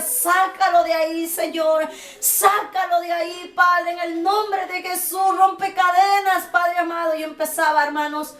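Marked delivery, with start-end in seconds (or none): 0.0-7.1 slow, pleading cry to God; tearful pleading prayer. Retold or imitated. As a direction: beg the Father, voice rising to a chant. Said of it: "le decía". (oración suplicante, lenta y quebrada)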